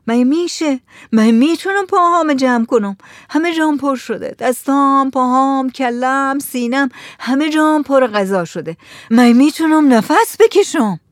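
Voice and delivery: high, whiny complaint; overfed wife's high-pitched lament; distressed protest. A narrator's reading. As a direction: wail that it is impossible, stuffed full. Stuffed wife protests to husband.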